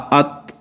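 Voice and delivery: ات with a breathy puff after the t; ات ending in a light th breath; soft aspirated t. Shown as a demonstration. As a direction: let air escape after ات. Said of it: "صفت ہمس جاری ہوگی".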